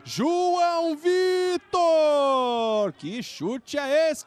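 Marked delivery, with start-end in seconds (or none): 0.0-2.9 excited shout. Real, not acted. Long shot shouted.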